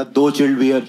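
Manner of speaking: low, put-on heavy voice; new deep voice. Teen ordering beer at the liquor shop, faked deep voice. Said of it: "नई नई भारी आवाज में बोला".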